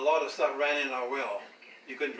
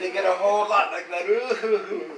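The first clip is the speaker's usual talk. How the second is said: loud, higher, breaking into laughter; laughing quote; 6 semitones higher, 8 dB louder, slower than usual. Retold or imitated. Retelling the husband's excuse, laughing. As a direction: laugh through the line.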